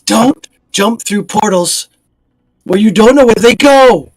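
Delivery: scolding. Acted. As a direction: tell him off like a worried mother. Lady Redgrave scolding returning knight.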